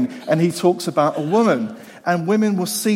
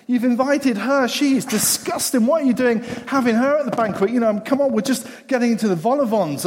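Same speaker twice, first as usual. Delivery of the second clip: higher, scandalised gossiping voice; outraged Pharisees; 6 semitones higher than usual. Acted. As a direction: clutch your pearls at the guest list. Pharisees outraged at banquet guests.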